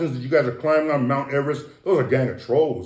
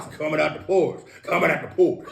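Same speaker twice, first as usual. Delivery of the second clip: laughing. Real, not acted. Laughing at own joke.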